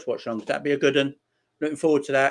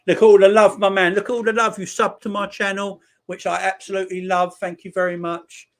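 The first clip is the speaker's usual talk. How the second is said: loud, higher-pitched burst of appreciation; excited gratitude; 6 semitones higher, 6 dB louder than usual. Real, not acted. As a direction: shout out the love with real excitement. Moved by support for new subscriber.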